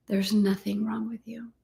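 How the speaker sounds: breathy close whisper; hushed reassurance. Shown as a demonstration. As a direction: whisper the line softly. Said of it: "repeated affirmation".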